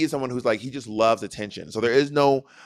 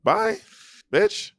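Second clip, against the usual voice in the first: sing-song goodbye. Real, not acted. Teasing goodbye to sibling.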